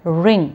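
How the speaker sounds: "ring" ending in a nasal ng; "ring" held on the final ng. Shown as a demonstration. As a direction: close "ring" through the nose with no hard g. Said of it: "अंग, नाक बंद हो जाएगा".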